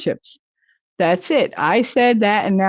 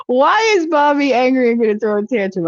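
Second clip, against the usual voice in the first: mock baby talk; 5 semitones higher than usual. Teasing commenter.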